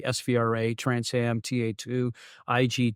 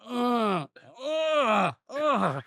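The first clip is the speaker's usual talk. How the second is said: high, halting stunned uh sounds; imitating a stunned grunt; dazed groaning uhs; 11 semitones higher, much slower than usual. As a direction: play the dazed passenger coming to in the back seat. Bob dazed after hitting ceiling.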